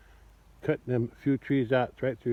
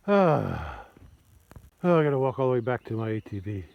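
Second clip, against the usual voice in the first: out of breath. Real, not acted. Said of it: "Gotta catch my breath though".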